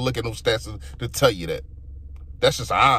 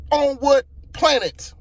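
incredulous; 11 semitones higher, 4 dB louder, slower than usual. Real, not acted. Incredulous at coach's press claim.

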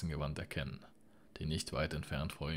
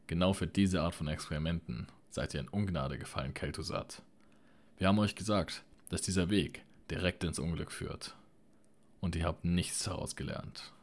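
outraged. Acted. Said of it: "Ihre Stimme bebte vor Empörung".

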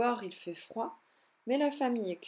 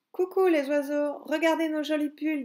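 excited calling out; 5 semitones higher, 7 dB louder than usual. Acted. Kids calling up to birds.

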